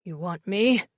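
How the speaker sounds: low hoarse voice. A narrator's reading. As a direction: rasp it out, worn. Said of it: "in a hoarse voice".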